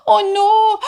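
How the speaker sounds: high, loud "oh no" in alarm; dramatic storybook alarm; mock alarm. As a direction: play up the panic for the kids. Wingtip catches fire.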